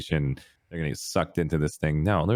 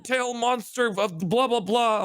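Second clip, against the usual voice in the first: screaming brother; slower than usual. Retold or imitated. Brother screams at the dragon monster. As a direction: shriek it like a panicked big brother. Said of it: "He starts screaming".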